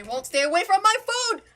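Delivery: fed up with flies stealing food; exasperated shout. Real, not acted. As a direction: yell at the flies in real exasperation. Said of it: "I'm getting mad".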